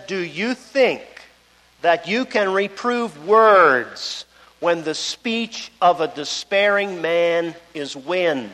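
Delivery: slow, measured reading of the verse; slow scripture reading. Acted. Preacher reading Job's words to his friends, slow. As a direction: read the verse slowly and carefully. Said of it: "It says".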